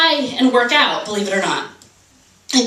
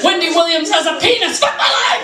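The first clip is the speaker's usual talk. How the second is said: high-pitched mock wail; overblown outrage; 4 semitones higher than usual. People using the phrase for dumb reasons, overblown outrage. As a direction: climb to a hysterical fake cry. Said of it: "It's always like".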